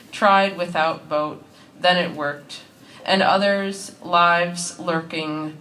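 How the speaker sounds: deliberate recital with falling line ends; poetry reading. Acted. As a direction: read verse in short, separated phrases. Reads second poem aloud.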